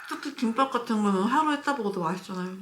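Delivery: normal talking voice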